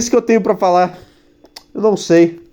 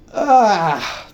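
long vocal yawn; a big open-mouthed yawn; 3 semitones higher than usual. Real, not acted. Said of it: "Eu tô bocejando".

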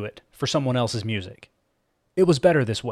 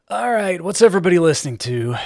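upbeat; 5 semitones higher, 5 dB louder than usual. Acted. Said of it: "he said to himself".

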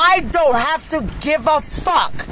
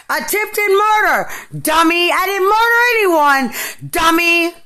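crying rant; 3 semitones higher than usual. Real, not acted. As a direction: sob the accusations out. Ranting while crying.

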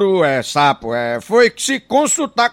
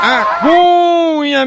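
stretched-out high call of "A Cunha"; catchphrase shout; 10 semitones higher, 6 dB louder, much slower than usual. Acted. Comedian opening a joke with a long drawn call. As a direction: belt out "Cunha" slow and high.

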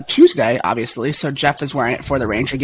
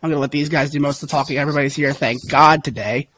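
hoarse voice. Real, not acted. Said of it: "I have lost my voice".

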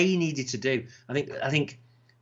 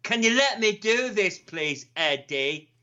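pleading Sid; 8 semitones higher, slower than usual. Retold or imitated.

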